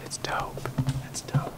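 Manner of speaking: hushed whisper; whispering on the phone. Real, not acted. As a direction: whisper it, barely voiced. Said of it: "Why are you whispering?".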